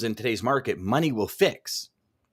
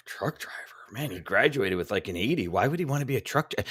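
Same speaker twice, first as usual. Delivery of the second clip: mock scoff; 4 dB quieter than usual. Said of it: "that's the feeling I got".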